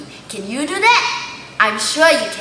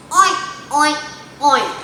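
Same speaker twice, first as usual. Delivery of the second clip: pig oinks; 3 semitones higher than usual. Shown as a demonstration. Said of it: "The pig goes".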